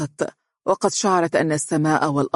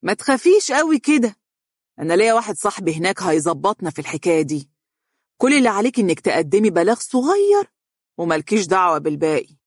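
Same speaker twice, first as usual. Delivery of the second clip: coaxing change of tone; 3 semitones higher, faster than usual. Acted. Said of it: "غير نبرة صوته".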